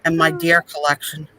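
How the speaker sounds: a touch of fed-up pharmacist ranting; Angela impression. Imitating Angela ranting about old customers, mildly hammed-up. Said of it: "That was Angela".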